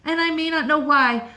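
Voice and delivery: loud and high, slowing on the last line; shouted proudly. A narrator's reading. Child shouting from the sounding-off place, loud and proud. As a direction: shout it to the sky with joy. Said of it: "Shout loud at the top of your voice".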